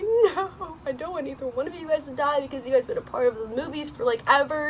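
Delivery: high, fast pleading protest; pleading distress. Retold or imitated. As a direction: beg them not to die. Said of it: "I was like".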